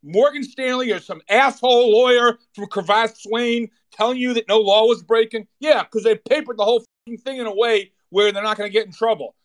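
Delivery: furious rant. Real, not acted. Host raging at executives and lawyers, shouting angrily. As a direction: let it explode, yelling at the crooks.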